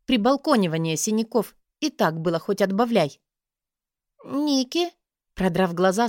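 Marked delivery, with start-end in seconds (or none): 4.2-4.9 sleepy. A narrator's reading. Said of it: "сонно произнесла Силь".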